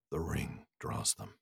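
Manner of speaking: low, slow, hushed warning; sinking to a whisper. Acted. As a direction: drop the voice almost to a whisper. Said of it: "his voice sank to a whisper".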